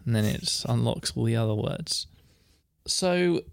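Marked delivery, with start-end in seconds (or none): 2.9-3.4 mock-formal. Mock-formal definition, then laughs.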